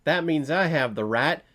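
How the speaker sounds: mocking a reviewer's imitation of a Western tough guy; mock Western gun owner. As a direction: play the trigger-happy rancher warning off a trespasser, half in jest. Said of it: "You think I'm making fun of Westerns".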